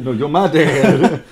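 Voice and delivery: drawn out, giggling through it; slow laughing reply. Acted. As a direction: stretch it out while laughing. Acted joke dialogue.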